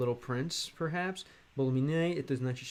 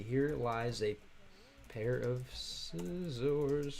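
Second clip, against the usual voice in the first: slow careful reread; 4 dB quieter, much slower than usual. Shown as a demonstration. Rereading the chat message to viewers, very slow and careful. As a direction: stretch each word out very slowly. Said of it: "it's gotta be".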